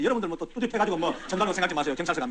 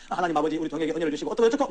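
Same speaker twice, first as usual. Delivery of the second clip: rote prayer; 4 semitones lower than usual. Retold or imitated. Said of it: "형식적으로 때우는 기도".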